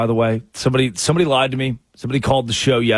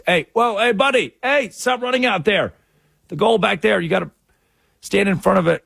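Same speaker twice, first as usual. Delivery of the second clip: yelling at player; 7 semitones higher than usual. Acted. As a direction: shout across the field at the goalie. Yelling at goalie on TV.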